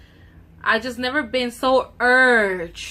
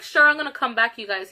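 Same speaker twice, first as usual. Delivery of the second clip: mocking sure; 5 dB louder than usual. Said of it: "he's like".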